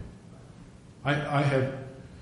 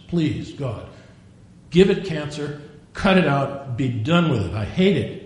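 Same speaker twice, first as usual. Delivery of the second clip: emphatic, loud-edged plea to God; desperate prayer; 4 dB louder, slower than usual. Retold or imitated. Sailor begging God about his tongue, desperate prayer. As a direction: pray it forcefully, fed up with yourself.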